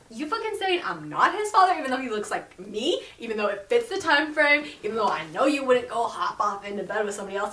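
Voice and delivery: mock angry rant. Derek ranting at Jasmine about his son, hammed-up anger. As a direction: rant it like a wronged man.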